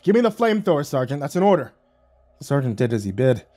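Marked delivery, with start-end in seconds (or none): 0.0-1.7 commanding. Acted. Captain giving an order.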